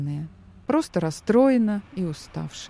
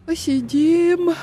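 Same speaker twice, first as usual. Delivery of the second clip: lazy agreement; 11 semitones higher, 5 dB louder, slower than usual. Acted. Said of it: "лениво согласился Антон".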